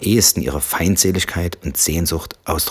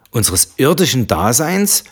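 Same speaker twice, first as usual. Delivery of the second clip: mocking repeat, slow and high; jeering; 7 semitones higher, 4 dB louder than usual. Husband mocking his wife's phrasing, jeering. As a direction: throw her words back with scorn. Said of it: "höhnte er".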